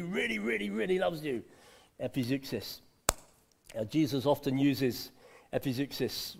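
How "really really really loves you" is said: emphatic repetition. Shown as a demonstration. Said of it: "repeating for emphasis".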